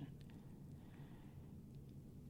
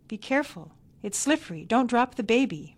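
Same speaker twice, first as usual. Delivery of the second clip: raised, anxious warnings from the doorstep; grandmother shouting; 5 semitones higher, 6 dB louder than usual. A narrator's reading. Grandmother calls from her doorstep to the new parents, fussy shout. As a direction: call out a fussy warning, rising louder. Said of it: "Miney shouted from her front doorstep".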